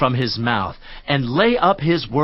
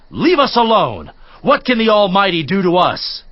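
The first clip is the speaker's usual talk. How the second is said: raised, higher voice, flinging the words at God; defiant outcry; 5 semitones higher, 4 dB louder than usual. Acted. The wicked crying out to God, defiant and loud. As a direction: shout it back in defiance.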